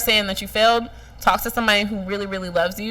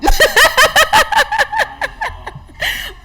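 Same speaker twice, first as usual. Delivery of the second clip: a long high laugh with tears in it; 6 dB louder than usual. Real, not acted. Imagining Joe's reaction, high teary laugh.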